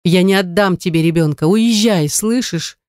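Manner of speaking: ordinary delivery, nothing marked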